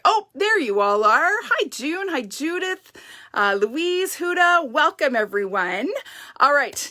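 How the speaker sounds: slightly winded greetings; a little out of breath from running. Real, not acted. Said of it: "sound like I'm out of breath".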